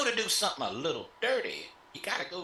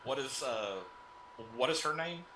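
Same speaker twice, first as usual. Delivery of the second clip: normal talking voice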